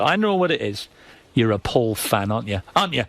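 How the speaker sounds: mock Geordie accent, needling; imitated Geordie voice. She accuses him of siding with Paul, mock Geordie. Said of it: "And that Geordie voice of it".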